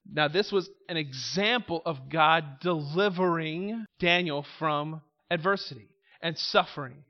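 ordinary talk, nothing marked

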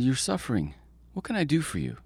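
a sly, caring coyote; trickster tale voices. A narrator's reading. Coyote offers help to freezing people.

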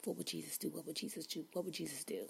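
soft murmured repetition to herself; quiet mantra. Retold or imitated. Calming herself down over the parking spot, softly murmured. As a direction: mutter it under your breath to calm down. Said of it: "I kept checking myself".

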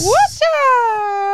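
high, loud "watch out" call; shouted catchphrase. Acted. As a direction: yell it out like a hype man.

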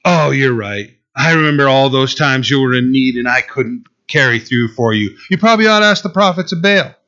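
dry mock agreement, speeding up at the end; sarcastic God. Preacher voicing God mocking His people's doubt, dry irony. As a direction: concede with heavy irony. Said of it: "This is the type of sarcasm God will throw out".

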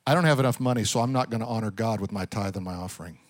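quiet, low, mumbled excuse; mock excuse. Preacher voicing a believer who skips tithing. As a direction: mutter it like a reluctant giver. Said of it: "a wrong strategy".

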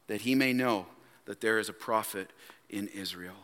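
solemn, fading Bible reading; hushed Scripture reading. Real, not acted. Reads Scripture, softening to close.

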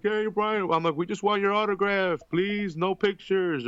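mock eager fan.

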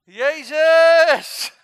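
very loud, high, drawn-out shout; dramatic full-voiced exclamation; loud cry. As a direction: belt it out, stretching the last syllable. Sudden cry in dramatic retelling.

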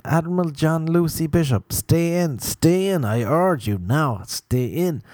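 imitating passionate appeal. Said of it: "He kept saying Admiral something".

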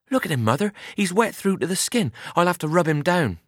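put-on a young farm lad fussing over a soaked horse; eager boy Albert. A narrator's reading. Albert pleading with his mother over the wet horse, eager boy's voice.

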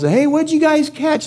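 high, drawn-out call across water; yelling from shore. Acted. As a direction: holler it out to a far-off boat. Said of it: "and he yells".

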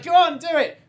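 a voice in his head urging him to go; inner daring voice. Retold or imitated. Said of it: "there's this voice in my brain".

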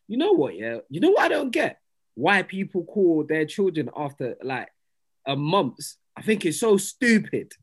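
re-enacting a high, worked-up rant; mock indignation, pitch leaping on key words; passionate rant. Barbershop story, retelling own rant about naming kids, passionate. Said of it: "you know how I get passionate".

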